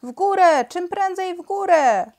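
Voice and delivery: high, loud urgent shout; boy under arrows crying out in alarm. A narrator's reading. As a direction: yell the order to climb. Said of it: "krzyknął".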